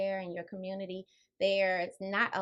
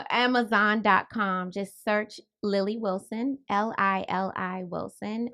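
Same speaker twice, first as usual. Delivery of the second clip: louder and slower, laughing at first; speaking louder; 8 dB louder, slower than usual. Real, not acted. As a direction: repeat it louder and slower, clearly. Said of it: "say it one more time and speak a little louder".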